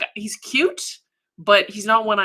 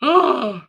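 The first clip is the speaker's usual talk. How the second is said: loud groan; 6 semitones higher, 8 dB louder than usual. Real, not acted. Reacts to the high price.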